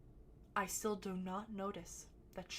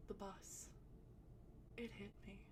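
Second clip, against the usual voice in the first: soft, dazed and much softer; dazed murmur; 12 dB quieter than usual. Retold or imitated. Stoned girl softly telling friends the bus hit her. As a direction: mumble it like you're barely there.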